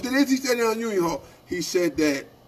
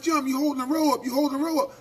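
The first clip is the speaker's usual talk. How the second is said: higher-pitched mock complaint; mild mock holler, pitched up; imitated hollering; 5 semitones higher, faster than usual. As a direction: mimic people hollering, without full volume. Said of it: "everybody hollering".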